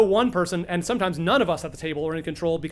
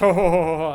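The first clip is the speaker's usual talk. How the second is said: mock laughter; 5 dB louder than usual. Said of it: "you hear many laughs".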